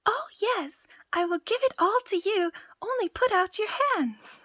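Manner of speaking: high, loud shout; as loud as he could. Acted. Tom Thumb shouts his offer to the thieves, high and loud. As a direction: yell it at full strength. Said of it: "as loud as he could".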